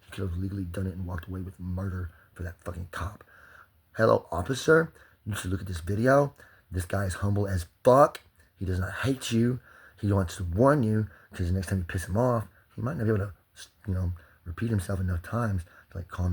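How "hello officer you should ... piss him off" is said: loud address. Real, not acted. Addressing the officer on camera.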